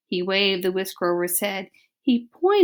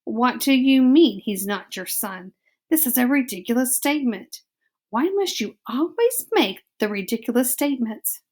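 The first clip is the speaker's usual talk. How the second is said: put-on French accent; 3 semitones higher than usual. Antoinette scolding in French accent.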